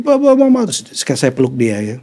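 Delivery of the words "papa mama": higher-pitched mild mock yell; imitated child's cry. Father imitating his son calling his parents, mild mock cry. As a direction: call out like a child waking to parents. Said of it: "dia teriak lagi".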